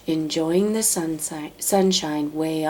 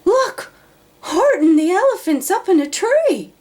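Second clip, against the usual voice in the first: high, loud jeering shout; gleeful shout; 13 semitones higher, 5 dB louder than usual. Acted. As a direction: crow it out to the whole jungle. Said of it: "they shouted with glee".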